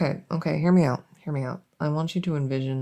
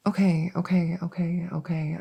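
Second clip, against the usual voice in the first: whispered mutter. Real, not acted. Thinking aloud under breath.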